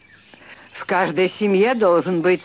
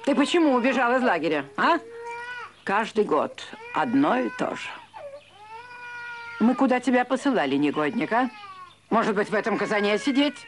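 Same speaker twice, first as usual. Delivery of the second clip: scolding; 4 semitones higher, faster than usual. Acted. Grandmother scolds the grandson.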